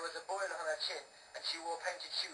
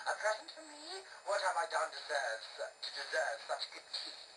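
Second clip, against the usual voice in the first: witch voice. Acted.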